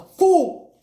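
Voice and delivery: sudden loud, high burst on one word; scornful outburst. Acted. Saruman dismissing Gandalf, mock-scornful outburst. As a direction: punch it out as a mock-scornful shout.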